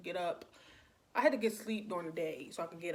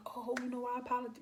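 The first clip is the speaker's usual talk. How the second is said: higher, lightly imitated apology; apologetic caller; 5 semitones higher, faster than usual. Late caller to annoyed woman, lightly mimicked apology. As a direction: lightly mimic him saying sorry, pitched up. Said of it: "You know, he apologized".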